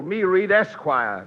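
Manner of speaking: pidgin mixed with cheerio British; lightly put-on islander voice; a hint of hammed-up native chief; mock native dialect. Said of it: "Speak with a drool".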